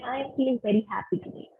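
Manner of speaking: quick, bright and upbeat; cheerful. Shown as a demonstration. Teacher showing a tone that matches the words, cheerful. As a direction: let the happiness show in the voice. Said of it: "match the tone of your voice with your words".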